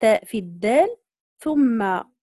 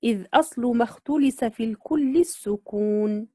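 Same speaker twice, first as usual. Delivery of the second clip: recited verse line. Shown as a demonstration. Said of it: "ثم قال".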